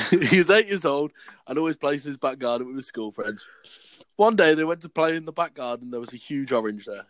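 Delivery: deliberate schoolboy-story reading; story read aloud. Acted. Reading his old school story to friends, read-aloud voice.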